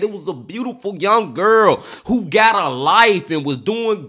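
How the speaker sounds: venting real anger over a senseless killing; upset and emotional. Real, not acted. Reacting to the murder case, getting upset and heated. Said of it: "I'm getting a little upset and emotional now".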